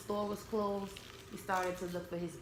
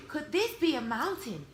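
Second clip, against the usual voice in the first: wondering bear; 5 semitones higher, 3 dB louder than usual. Acted. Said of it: "he wondered".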